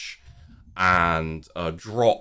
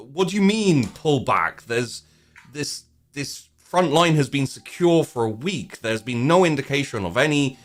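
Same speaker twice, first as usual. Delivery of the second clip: indignant officer; 6 semitones higher than usual. Acted. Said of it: "essentially saying".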